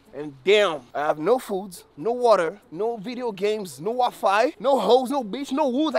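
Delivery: real exasperated ranting; loud complaining list. Real, not acted. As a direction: build the list with rising outrage. Listing loudly what's missing.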